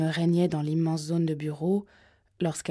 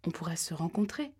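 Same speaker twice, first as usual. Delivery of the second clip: softer, even and steady; calm and composed; 5 dB quieter than usual. Acted. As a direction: keep it level, soothing the caller. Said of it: "répondit-elle posément".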